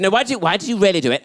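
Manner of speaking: quick, mildly exasperated questioning; annoyed mum. Retold or imitated. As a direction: press him like a fed-up mum. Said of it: "the mum was getting really annoyed".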